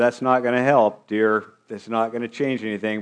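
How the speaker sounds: lightly mocking wife's retort; dry, understated sarcasm from a wife; mildly sarcastic. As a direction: retell it with a touch of sarcasm. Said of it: "So she rather sarcastically said".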